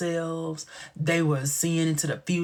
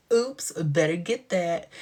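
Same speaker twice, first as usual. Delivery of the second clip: coy Mitzi; 2 semitones higher, slower than usual. Retold or imitated. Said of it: "she was like".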